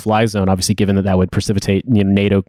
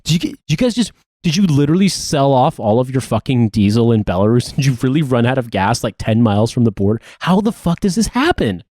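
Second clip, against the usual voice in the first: mock disbelief; 3 semitones higher than usual. Veteran mocking Russia's fuel blunder, mock disbelief. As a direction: pitch it up in mock astonishment at Russia.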